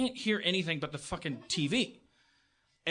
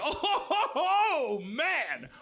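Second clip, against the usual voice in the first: mock laugh; 6 semitones higher, much slower than usual. Laughing back at the bartender who insulted him, gloating. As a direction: cackle at him like a taunting underdog.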